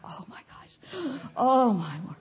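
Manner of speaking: hushed, low gasp of dismay. Acted. Believer sitting down over a big bill, hushed dismay. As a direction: sink into it under your breath. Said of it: "sit down and go".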